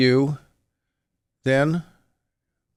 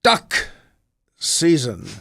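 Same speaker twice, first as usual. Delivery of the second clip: cartoon retort; 2 semitones higher, much slower than usual. Rabbit arguing the season with a rival, pointed cartoon retort.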